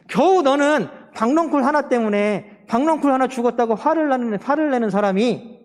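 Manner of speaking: God's rebuke. Acted. Preacher voices God to Jonah over the gourd, acted reproach. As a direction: scold for a petty anger. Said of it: "하나님 말씀하시는 거야".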